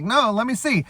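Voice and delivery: high, easy-going spy voice; a hint of Owen Wilson, light and high. Spy going to check the buried informant, high casual voice.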